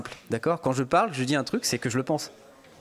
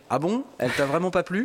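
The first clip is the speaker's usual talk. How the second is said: higher, lightly wounded questioning; mock hurt; 4 semitones higher than usual. Host imitates touchy colleague hearing praise of his video, mock hurt. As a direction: imitate someone taking it to heart. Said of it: "il prend toujours les choses un peu à cœur".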